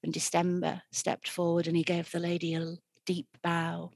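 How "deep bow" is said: ordinary delivery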